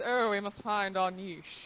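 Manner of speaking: slow, affected posh-sounding "niche" as neesh; mock pretentious. Mocking the Canadian podcast's "niche" as neesh, slow and affected. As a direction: say "niche" like neesh, slowly and lofty. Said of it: "sounds all, like, pretentious".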